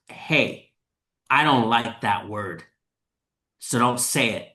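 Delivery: retold stern warning, measured and firm. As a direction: lightly act out a firm telling-off, pausing between phrases. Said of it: "Very stern".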